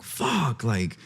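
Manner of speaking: high-pitched exasperated complaint to himself; frustrated outburst. Retold or imitated. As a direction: vent the annoyance in a high, strained voice. Retold frustrated outburst at desk.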